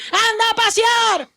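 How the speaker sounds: high, hammed-up brush-off; exaggerated scornful send-off; mock dismissal. Acts brushing off what was promised.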